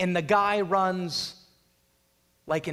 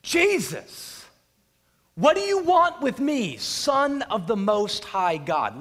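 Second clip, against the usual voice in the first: high, loud cry, slowing on the title; 4 semitones higher, 5 dB louder than usual. Acted. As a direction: cry out as the possessed man at Jesus' feet. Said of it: "Crying out with a loud voice".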